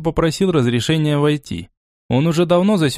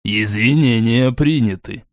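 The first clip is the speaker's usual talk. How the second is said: slow and level; unhurried acceptance; calm; 2 semitones lower, slower than usual. Acted. Borey accepting the apology, calm and slow. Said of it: "спокойно произнёс Борей".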